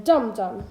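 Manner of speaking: dum-dum with weight on both syllables; two equal stresses. Shown as a demonstration. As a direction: give each half of dum-dum a beat. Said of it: "two stressed syllables in a row".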